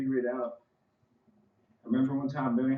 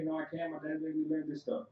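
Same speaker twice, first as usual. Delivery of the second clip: put-on higher kid voice, a little sulky; the speaker as a kid telling friends he can't play, higher kid voice; young me, disappointed; 6 semitones higher than usual. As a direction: answer like a kid stuck inside. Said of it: "Come play, come play".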